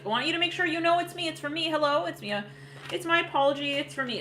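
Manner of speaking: high and fast, gushing; eager ex. Retold or imitated. Ex rushing to prove it's him, high and fast. Voicing the ex's eager apology.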